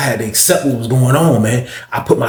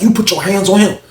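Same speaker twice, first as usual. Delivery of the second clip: imitating an angry woman, pitch raised; angry accusation; 6 semitones higher than usual. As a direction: accuse him, higher but not shouted. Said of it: "Her face got angry".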